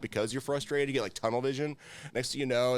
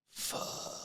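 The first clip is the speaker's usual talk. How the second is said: deflated curse; 12 dB quieter than usual. Retold or imitated. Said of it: "Then I'm like".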